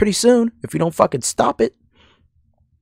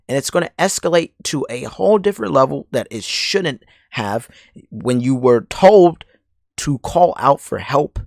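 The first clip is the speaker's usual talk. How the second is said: grave and measured, a notch softer; serious tone; 3 semitones lower, 4 dB quieter than usual. Real, not acted. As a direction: say it seriously, like a warning. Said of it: "I'm gonna say this in a serious tone".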